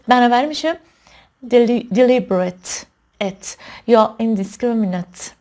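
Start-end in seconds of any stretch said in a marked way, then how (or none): 1.5-5.3 deliberate and indiscriminate, slowly, each ending in "ut"; slow model of deliberate, indiscriminate without "ayt"; schwa -ate ending. Shown as a demonstration. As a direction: reduce the end of deliberate and indiscriminate to schwa plus t. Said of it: "اینجوری ات".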